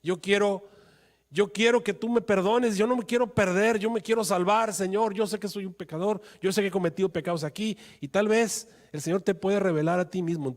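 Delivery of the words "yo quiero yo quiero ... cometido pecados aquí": higher, earnest begging for forgiveness; pleading prayer. Acted. Sinner on his knees asks God for forgiveness, pleading. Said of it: "de rodillas delante de Dios, diciéndole".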